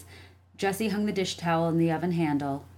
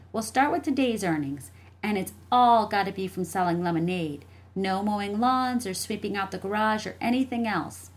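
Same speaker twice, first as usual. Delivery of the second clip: lightly voiced, higher child; insistent little sister; 4 semitones higher than usual. Jessie explaining bet rules to her brother, insistent. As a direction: lay out the rules firmly.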